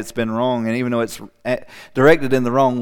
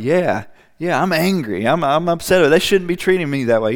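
indignant complaint; 5 semitones higher, 4 dB louder than usual. Retold or imitated. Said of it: "And you're like".

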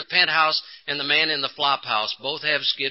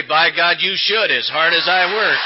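louder indignant bluster; self-righteous; 4 dB louder than usual. Retold or imitated. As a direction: puff up, wronged husband. His self-righteous reply.

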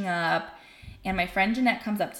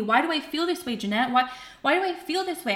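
retold anguished asking; 7 semitones higher than usual. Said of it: "And I'm like".

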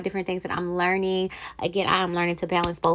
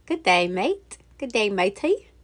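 attempted British accent on a greeting. Shown as a demonstration. Podcaster showing off practised phrases to listeners, British accent. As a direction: try out a playful British accent. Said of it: "British accent".

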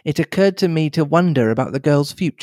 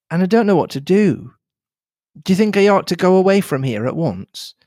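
put-on young Cynthia, worried; 3 semitones higher than usual. Cynthia asks Hastings what she should do, mildly anxious. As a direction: ask for advice, a little lost.

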